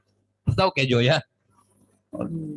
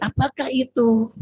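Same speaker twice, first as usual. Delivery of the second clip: higher call-and-response; 8 semitones higher than usual. Shown as a demonstration. Preacher leading the congregation in unison, raised voice. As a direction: lead the crowd in Apakah itu. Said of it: "Yuk sama-sama".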